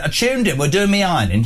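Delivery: lightly put-on northern English accent; mock a northern English accent, a little livelier. Wife quoting her mother, in a mock northern English accent. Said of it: "why I'm doing that accent".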